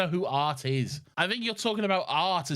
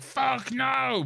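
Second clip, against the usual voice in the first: mock booing; 10 semitones higher than usual. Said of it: "she's like".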